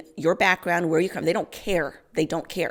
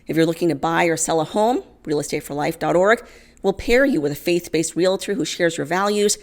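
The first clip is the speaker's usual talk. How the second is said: louder, upbeat sponsor plug; sponsor ad read; 4 dB louder than usual. Acted. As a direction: sell it like a friendly ad spot. Sponsor read mid-story.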